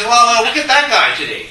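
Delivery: high, loud mocking voice; lightly mimicked jeering onlooker; mocking critics. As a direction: sneer at him like the critics do. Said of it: "They say".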